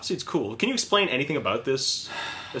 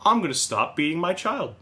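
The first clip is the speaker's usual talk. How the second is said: lightly acted epiphany, pitched up; mock sudden realization; 5 semitones higher than usual. Imagined Facebook reader having a change of heart, mock epiphany. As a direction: pretend you just saw the light.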